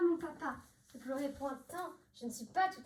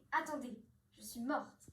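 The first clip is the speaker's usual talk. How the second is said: faking dying softly; 3 semitones lower, 6 dB quieter than usual. Pretend. Daughter fakes her death.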